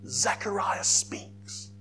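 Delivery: slow hushed whisper. Shown as a demonstration. Preacher telling the congregation Zechariah's silence ends, hushed whisper. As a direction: breathe it out like a secret kept for months. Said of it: "This nine months of silence ends".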